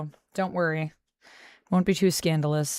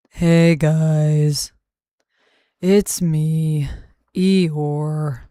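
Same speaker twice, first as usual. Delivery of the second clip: low, loud, drawn-out donkey voice; Eeyore; 5 semitones lower, 8 dB louder, much slower than usual. Acted. Streamer answering chat as the donkey from Winnie the Pooh, gloomy impression. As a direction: sound depressed and plodding, pitched well down. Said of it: "Oh, like Eeyore?".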